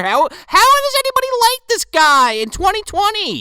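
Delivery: loud, high-pitched disbelief; real exasperated yell; exasperated outburst. Real, not acted. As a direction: rant in baffled exasperation. Ranting about disliked comedian.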